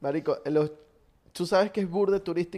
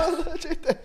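echoed shout; 12 semitones higher than usual. Acted. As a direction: shout it back like a cohost. Cohost echoes announcement.

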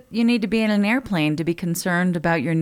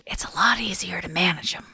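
whispered aside; 6 dB quieter than usual. Real, not acted. Aside during ad read.

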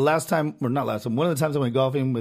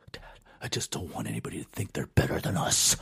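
earnest son; 12 semitones lower, 6 dB quieter than usual. Retold or imitated. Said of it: "I said".

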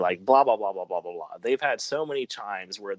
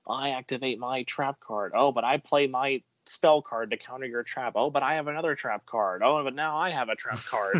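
shouted card game moves; 4 semitones higher than usual. Retold or imitated. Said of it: "this sounds like Yu-Gi-Oh".

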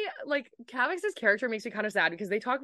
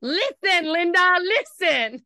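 mock plea; 9 semitones higher, 8 dB louder, much slower than usual. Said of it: "comic plea to friend".

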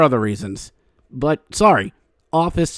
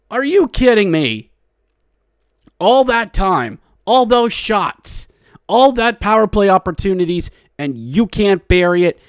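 exasperated disbelief; 5 semitones higher than usual. Real, not acted. Fan ranting after the opponents score, exasperated. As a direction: vent at the team for wasting chances.

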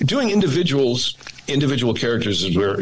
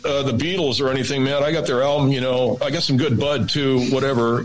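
lightly voiced Southern California surf kid; a hint of laid-back surfer talk; casual imitation of a surf kid. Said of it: "It seems like just any surf kid from Southern California".

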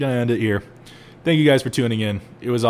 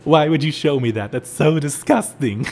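disgusted boss; 2 semitones higher than usual. Retold or imitated. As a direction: stretch out "so disgusting". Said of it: "so he comes out".

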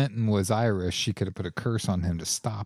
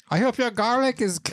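laughing; 12 semitones higher than usual. Pretend. Mock curse with laughter.

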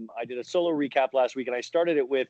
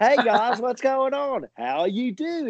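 put-on high, bright-pitched British accent, sliding toward Australian; a botched British accent in a reality star impression; British accent slipping; 10 semitones higher, slower than usual. Imitating Brittany, voice goes up into a British accent. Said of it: "it ends up turning, like, British".

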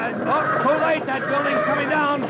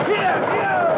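urging horse; 7 semitones higher than usual. Acted.

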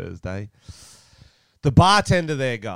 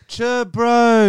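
put-on Kiwi accent; 12 semitones higher, 7 dB louder than usual. Mock Kiwi greeting.

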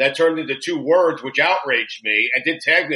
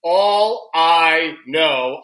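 slow, stretched-out delivery of each word; hammed-up slow recital of a lyric; dramatic reading; much slower than usual. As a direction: draw the words out with mock drama. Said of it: "dramatically saying the words".

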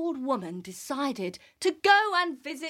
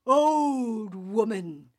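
wolf voice; slower than usual. Acted. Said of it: "And the wolf, he went".

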